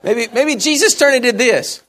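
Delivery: can't hold the laugh in. Real, not acted. Laughing at imagined gesture.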